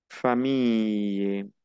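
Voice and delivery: Famille slow, with the ll said as a y, fa-mee-y; French pronunciation. Shown as a demonstration. Teacher to students: Famille said slowly in French. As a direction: stretch Famille out, ending in a y sound. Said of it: "Como es otra I".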